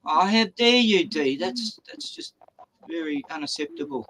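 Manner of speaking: mock indignation. Scolding host for missing someone waiting, mock indignation. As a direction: pretend to be scandalised, then settle down. Playful telling-off for the oversight.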